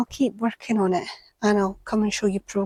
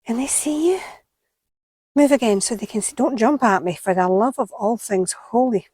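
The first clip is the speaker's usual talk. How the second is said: pleading with a toad; 2 semitones higher, 5 dB louder than usual. Real, not acted.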